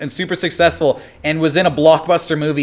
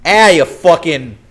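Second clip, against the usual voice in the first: put-on Boston accent; slower than usual. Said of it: "Anytime I hear that voice".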